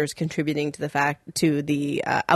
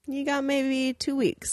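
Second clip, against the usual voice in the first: vet's verdict; 6 semitones higher, 6 dB quieter, slower than usual. Retold or imitated. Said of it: "the vet was like".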